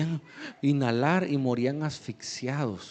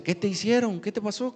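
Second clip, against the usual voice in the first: lightly imitated worried mother, pitched higher; concerned mother; 7 semitones higher, faster than usual. Mother asks her crying son what was done to him, concerned. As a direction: retell a mother's anxious questions.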